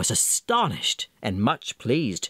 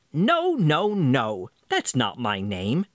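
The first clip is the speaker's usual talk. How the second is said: gleeful little man; slower than usual. Acted. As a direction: refuse each name with glee. Little man's gleeful refusal.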